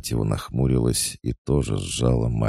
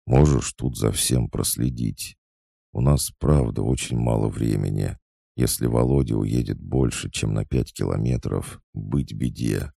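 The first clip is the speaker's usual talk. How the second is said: ordinary delivery, nothing marked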